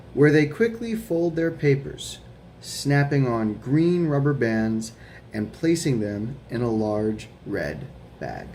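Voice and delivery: put-on slow, careful read-aloud for children; reading a picture book aloud. A narrator's reading. Teacher reading The Paperboy to her students, slow storytime voice. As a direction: read it slowly to a class of kids.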